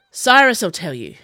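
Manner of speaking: loud, slow snap; snapped. A narrator's reading. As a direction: bite the words off. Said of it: "Chase snapped".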